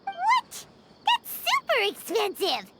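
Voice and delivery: high, startled squeal at the price; shocked outcry. Acted. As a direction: burst out in appalled disbelief.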